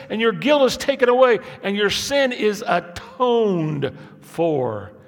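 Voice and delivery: high and loud scripture read, slowing at the end; full-force preaching. Acted. Preacher proclaims the seraph's words to the church, high and loud. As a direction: proclaim it to the back row.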